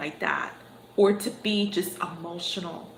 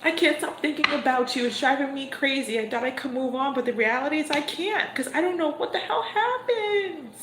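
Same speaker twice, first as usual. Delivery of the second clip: higher, pained, half laughing; longing confession; 6 semitones higher than usual. Pretend. Reader voicing the person who misses them, half-laughing pained confession. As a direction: voice someone who can't move on, almost crying. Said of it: "going to your person and saying".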